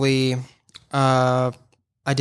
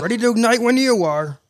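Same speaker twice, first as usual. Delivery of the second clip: villain voice; 7 semitones higher than usual. Shown as a demonstration. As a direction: gloat as the villain. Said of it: "give us a villain".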